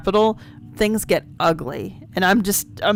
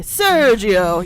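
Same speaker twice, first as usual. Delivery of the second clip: savoring the name; 4 dB louder than usual. Shown as a demonstration. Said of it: "Sergio is one of the most fun names to say".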